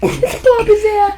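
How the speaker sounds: high put-on Chicago accent; mock Chicago accent. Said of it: "It's my Chicago accent".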